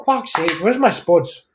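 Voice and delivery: slow, lightly mocked Irish grumble. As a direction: moan about the spuds, Irish. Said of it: "Irish people will get up there".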